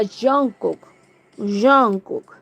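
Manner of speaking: A singer's name said as 'Yong-kuk'; the Korean's pronunciation. Shown as a demonstration. Passing on what the Korean guy said, demonstrated pronunciation. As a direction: open the name with a Y-like glide. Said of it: "el chico decía, el coreano, que era".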